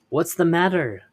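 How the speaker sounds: high, loud call from outside. Acted. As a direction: call in loudly to the cave. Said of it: "they called in".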